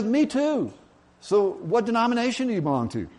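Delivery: high-pitched, eager mock delight; thrilled to find a kindred spirit; hammed-up excited agreement. Joke character delighted at match.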